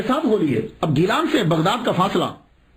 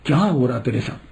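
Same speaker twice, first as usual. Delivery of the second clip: a hint of an old mother, lower and gentle; mother's voice; 3 semitones lower than usual. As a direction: lightly voice the worried mother. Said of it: "ماں بولی". (ماں کی ہلکی سی نرم آواز)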